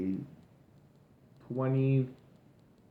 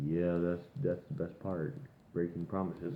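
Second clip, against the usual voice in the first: mock Peter voice; 7 semitones lower, 10 dB quieter than usual. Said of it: "he just goes up and he says".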